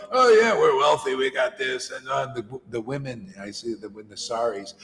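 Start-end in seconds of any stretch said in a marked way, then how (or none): 0.1-1.9 mock boasting. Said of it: "they're out there making the big show".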